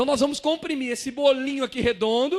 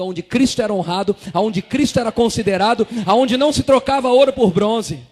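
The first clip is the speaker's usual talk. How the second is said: louder and louder on each line; building preaching; 10 dB louder than usual. Real, not acted. Preacher driving home where miracles happen, building to loud. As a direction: build the crescendo to a loud finish.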